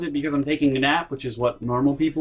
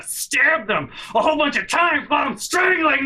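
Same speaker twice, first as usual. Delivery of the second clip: ranting shout; 10 semitones higher than usual. Retold or imitated. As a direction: let the rant boil over into a yell. Retold violent rant.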